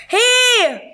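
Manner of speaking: very high, loud cry of protest; startled shout. A narrator's reading. Zebra as something whistles past his ear, startled shout.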